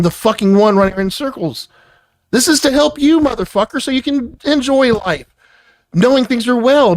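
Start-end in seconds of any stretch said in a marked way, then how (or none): 2.3-7.0 higher, straining frustrated scold; heated outburst. Real, not acted. Boss yelling at employee that this is to help him, higher heated scolding. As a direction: push it hard, fed up but insisting.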